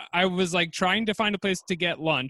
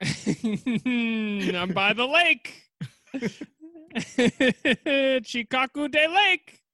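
put-on American accent Japanese; 7 semitones higher, much slower than usual. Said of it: "Japanese accent".

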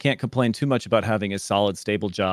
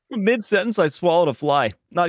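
laughing; 8 semitones higher than usual. Real, not acted. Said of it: "Not kidding".

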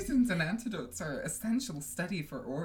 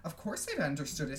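clenched teeth. Acted. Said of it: "teeth clenched so tightly".

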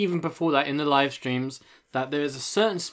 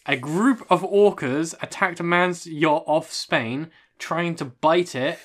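slow, deliberate news-style reading; article read-aloud; slower than usual. Acted. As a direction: read out a report slowly, pausing between phrases. Reads article aloud to co-hosts.

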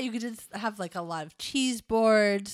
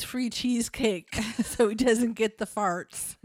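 put-on old lady voice. Cohost imitates an old lady relative, lightly voiced. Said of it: "I was trying to sound like an old lady".

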